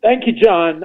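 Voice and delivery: speaking with the hiccups. Real, not acted. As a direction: talk through hiccups. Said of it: "I've got the hiccups".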